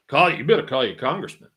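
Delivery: put-on light New York accent, insistent. Old boy urging a friend to phone Congress, light New York accent. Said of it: "he had a New York accent".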